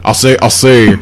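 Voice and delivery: half-hearted Southern cartoon voice; Foghorn Leghorn. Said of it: "Can't even do a foghorn leghorn".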